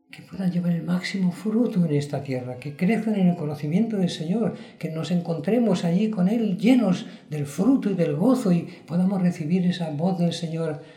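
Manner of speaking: fervent preacher's swell; rising fervour. Real, not acted.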